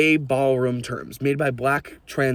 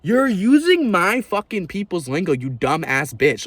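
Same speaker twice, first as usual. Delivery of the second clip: higher, slow, seething outburst; angry; 5 semitones higher, slower than usual. Real, not acted. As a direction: spit each word out in fury. Furious rant at mockers.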